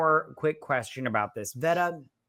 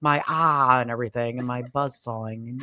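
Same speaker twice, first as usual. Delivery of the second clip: Buzzsaw voice. Retold or imitated. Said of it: "All like".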